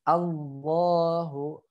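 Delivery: "Allahu" from a clear A, slow and drawn out; correct opening A. Shown as a demonstration. Teacher models the corrected word, slow "Allahu" with A. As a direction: hold "Allahu" long, starting on A. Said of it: "Jadi bacanya Allahu".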